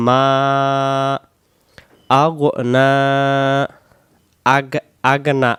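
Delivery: আগনা with a flat plain g; wrong reading of আগনা. Shown as a demonstration. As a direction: say আগনা with an unrounded g. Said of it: "আগনা এমন হবে না".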